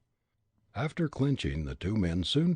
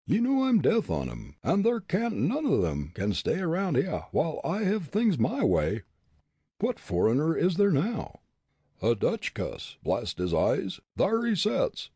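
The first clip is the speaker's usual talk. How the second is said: loud, high backwoods bully voice; blustering ruffian; 7 semitones higher, 3 dB louder than usual. Acted. Bully Jake to tavern keeper, loud blustering bully. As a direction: bluster like a brawler itching for a fight.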